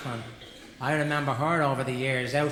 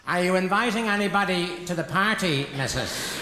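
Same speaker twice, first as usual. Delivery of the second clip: raised, higher mocking call; mock shouting over; 5 semitones higher than usual. Butcher to customer before other shoppers, shouted over. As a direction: call it across a shop for all to hear. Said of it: "he shouts over".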